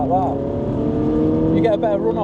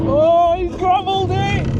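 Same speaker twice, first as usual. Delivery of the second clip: excited exclamation; 13 semitones higher, 3 dB louder than usual. Real, not acted. Watching car go off track.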